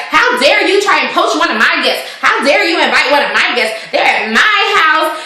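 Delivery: high-pitched mock indignation; going in at someone. Ramona accuses her rival of poaching a guest, mock indignant. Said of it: "she starts going in at Bethany".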